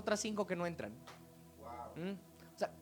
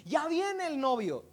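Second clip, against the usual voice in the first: higher, drawn-out herald's call, only half shouted; restrained imitation of a crier; retold shout; 4 semitones higher, slower than usual. Recalling who alerted the five women, mild shout. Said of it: "alguien gritó".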